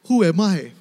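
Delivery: laughing sarcasm. Acted. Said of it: "even sarcastically telling him off".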